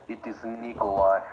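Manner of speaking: put-on Russian accent; firm comic Russian accent. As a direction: announce it as a mock Russian. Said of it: "if I'm in my Russian accent".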